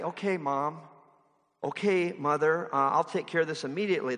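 gentle. Pretend. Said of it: "he could have said kind of gently".

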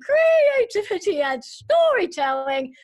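hammed-up, high-pitched mock announcer; announcer imitation. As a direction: mimic a grand intro, stretching out the last words. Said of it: "introduction you just heard".

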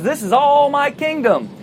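lightly voiced tempter showing off his realm; Satan. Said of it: "And Satan says".

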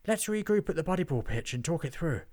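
panting goblin voice; breathless, still recovering; out of breath. Acted. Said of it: "still panting after their getaway dash".

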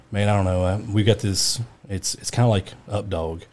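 low, understated retold deadpan; dead serious. Coworker feeding a setup to a colleague, dead serious. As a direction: imitate a boss breaking grave news. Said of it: "he's dead serious".

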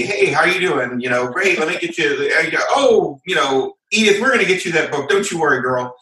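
a touch of down-home Texas reassurance; friendly Texan. Acted. Texan support agent soothing a customer about her book, friendly. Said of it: "be Texan, be nice, be howdy".

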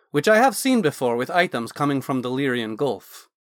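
a hint of an eager Dragonborn scholar; Naz the Dragonborn mage.

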